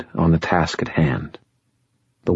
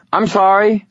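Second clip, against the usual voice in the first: high, louder apologetic female voice; Molly Carpenter; 5 dB louder than usual. A narrator's reading. Caller apologizing to her father's friend, high hesitant voice. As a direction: apologize with slightly thick S sounds. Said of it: "S sound was a little bit thick".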